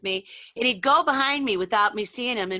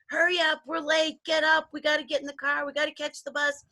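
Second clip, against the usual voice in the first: rushed stressed parent; 6 semitones higher than usual. Retold or imitated. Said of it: "I see kids these days".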